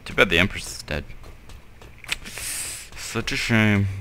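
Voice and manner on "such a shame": slow, mock-sorry sigh; sarcastic. Real, not acted. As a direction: drag it out insincerely. Sarcastic about dead Empress.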